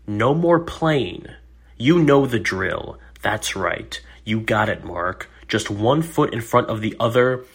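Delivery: lightly voiced therapist's encouragement; quoting her encouragement. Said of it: "and I quote".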